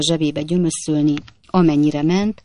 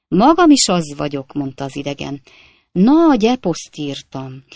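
brisk, choppy braggart voice, louder; boastful Jingle; 4 dB louder than usual. Acted. Stranger brushing off the coachman fight, boastful rattle. Jingle brags of his epic.

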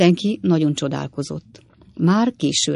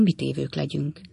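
softer, helpless dropping line; tanácstalan halkság; 6 dB quieter than usual. A narrator's reading. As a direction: let it sink away, at a loss. Rémült Pickwick tanácstalanul beszél. (halkan, tanácstalanul)

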